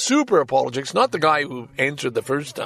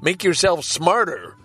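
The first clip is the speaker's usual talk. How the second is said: imitating younger folks; 3 semitones lower than usual. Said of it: "some of you younger folks are saying".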